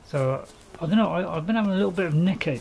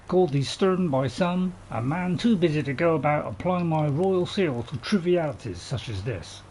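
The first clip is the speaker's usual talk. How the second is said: royal proclamation; 2 semitones higher than usual. Pretend. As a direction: read it out like a king's herald. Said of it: "I'll start again".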